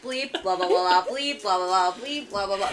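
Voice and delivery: mock babble broken by bleeps; imitating censored speech. Friend teasing him about his bleeped cursing, mock babble. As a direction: rattle off nonsense syllables with bleeps punched in. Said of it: "Every time he talks, it's like".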